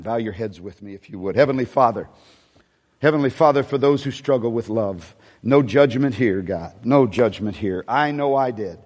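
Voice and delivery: fervent prayer, slowing and rising toward the end; pastoral prayer. Acted. Pastor praying over the congregation, fervent prayer. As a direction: pray over them with growing passion.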